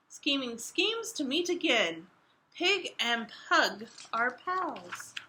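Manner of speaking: expressive picture book reading; reading to children. A narrator's reading. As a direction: read it out to young listeners.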